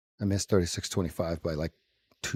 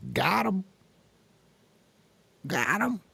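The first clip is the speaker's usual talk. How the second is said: gloating; 11 semitones higher, slower than usual. Retold or imitated. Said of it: "they can smash right through this thirty-seven and say".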